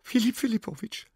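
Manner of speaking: high, indignant complaint. A narrator's reading. Sina complains to the professor about the dog, indignant. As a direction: demand punishment, outraged. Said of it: "sprach Sina empört".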